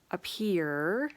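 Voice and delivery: "appear" drawn out with a lifting tune; stress on appear. Shown as a demonstration. Stressing "appear" to cast doubt on how people seem. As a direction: lean on "appear" and let it rise. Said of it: "I'm really emphasizing the word appear".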